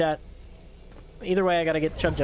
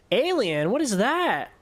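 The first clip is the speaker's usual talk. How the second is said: surprised; 6 semitones higher, slower than usual. Real, not acted. Surprised by aliens in game.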